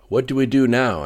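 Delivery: urgent. Acted. Tense president asks aloud.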